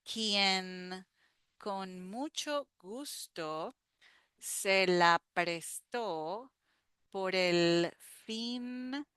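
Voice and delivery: slow, careful phrase-by-phrase repeat; teacher repeating a line slowly. Shown as a demonstration. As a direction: go through it slowly again. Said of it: "let's repeat this part".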